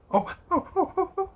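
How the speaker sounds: high, breathless laughing oh oh oh; laughing hard at his own microwave noise; real laughter. Real, not acted. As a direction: crack up, voice squeaking high.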